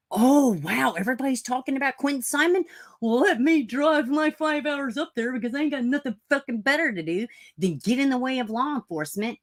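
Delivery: high, fast gossipy busybody; mocking busybody. Mocking a searcher who drives up for the drama, high and fast. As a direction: play the thrill-seeker driving up for the drama.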